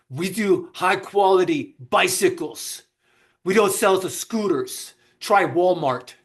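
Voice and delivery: mildly haughty, slow dismissal; a touch of snooty disdain; appalled shop owner. Retold or imitated. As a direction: look down on the customer. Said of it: "was so appalled at the question".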